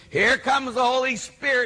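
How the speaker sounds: high-pitched televangelist hype; Benny Hinn. Retold or imitated. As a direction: work up a stadium as a TV faith healer. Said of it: "and he goes".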